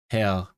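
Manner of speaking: HERR said in German with an unrolled R; German R example. Shown as a demonstration. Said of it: "usually they have the r".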